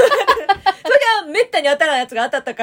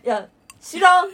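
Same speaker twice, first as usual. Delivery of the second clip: laughing dismissal; 6 semitones higher, 6 dB louder, slower than usual. Retold or imitated.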